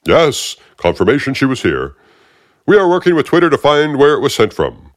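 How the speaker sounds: the smug agent's grating voice; aggravating Fishburne voice. Acted. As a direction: talk down to him like you own the room. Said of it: "that really aggravating voice".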